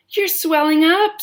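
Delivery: high loud scream; screamed again. A narrator's reading. Mother screams again, high and loud. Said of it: "screamed Missus Beauregard again".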